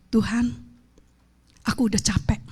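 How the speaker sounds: whispered, tired plea; weary whisper to God. Retold or imitated. Preacher retelling her prayer to God, weary whisper. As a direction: breathe it out, exhausted. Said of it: "saya cuma bilang".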